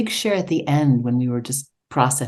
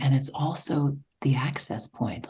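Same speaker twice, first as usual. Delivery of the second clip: whisper; 5 dB quieter than usual. Real, not acted. Soft aside.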